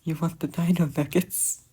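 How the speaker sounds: sing-song coaxing voice; coaxing baby talk. Acted. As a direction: coax a sulky toddler. Repeated, coaxing child.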